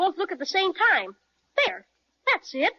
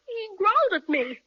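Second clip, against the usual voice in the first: higher, excited yelp; startled cry; 4 semitones higher than usual. Acted. Boy tells his sister the bear growled. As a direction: blurt it out half scared.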